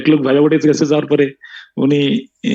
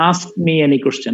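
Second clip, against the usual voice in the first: slowly, word by word; slow dictation; much slower than usual. Shown as a demonstration. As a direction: dictate it for students to write down. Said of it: "লিখো".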